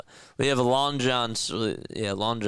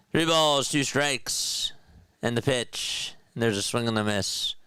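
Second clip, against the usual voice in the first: play-by-play call; 2 semitones higher than usual. Acted. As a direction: stretch the count like a broadcaster. Live play-by-play of his game.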